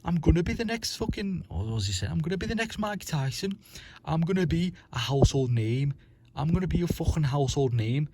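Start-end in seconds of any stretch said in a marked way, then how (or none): 0.0-1.4 much higher, hammed-up scouse boast; imitating a cocky fighter's bragging; mock Darren Till. Mocking Till's bragging about his big future, higher and hammed-up. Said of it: "he kept saying to himself". 2.1-8.1 much higher, hammed-up scouse boast; imitating a cocky fighter's bragging; mock Darren Till. Mocking Till's bragging about his big future, higher and hammed-up. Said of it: "he kept saying to himself".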